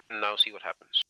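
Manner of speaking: loud call across the road. Real, not acted. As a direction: project the voice to distant listeners.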